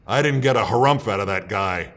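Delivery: lightly hammed indignation, pointing one out; mock indignant governor. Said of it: "Brooks stops and points at one of them and says".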